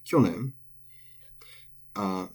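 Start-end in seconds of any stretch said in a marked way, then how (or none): 0.1-0.5 Kyonen. high on the first mora, falling after; head-high pitch accent. Shown as a demonstration. Teacher repeating Kyonen. to show head-high accent. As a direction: stress KYO in Kyonen. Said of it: "it is head high".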